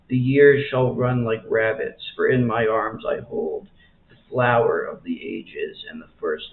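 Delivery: measured poetry reading with pauses between lines; poem recitation. Acted. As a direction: read the verse aloud, letting each line settle. Reads a poem aloud.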